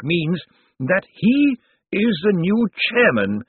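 put-on slow, high, dusty old lawyer; zombie lawyer voice. A narrator's reading. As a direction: draw out each word like a zombie. Slant speaks.

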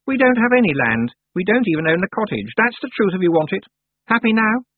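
put-on high, sharp girl's voice; haughty young witch Anagramma. A narrator's reading. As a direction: voice the proud young witch, peevish. Anagramma's voice in dialogue.

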